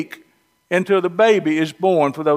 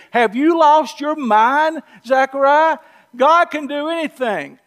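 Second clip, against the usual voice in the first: higher, exasperated mock scolding; Gabriel losing patience; 7 semitones higher than usual. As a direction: throw up your hands at Zechariah's doubt. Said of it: "here's how a Southern boy would translate this".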